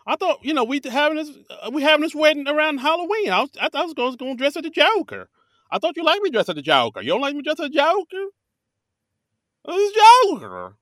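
put-on Southern accent, way up high and playful. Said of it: "everybody has a Southern accent".

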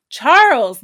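shout. Acted. Boy shouting his news as he runs home. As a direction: call out up the hill. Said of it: "Laurie yelled".

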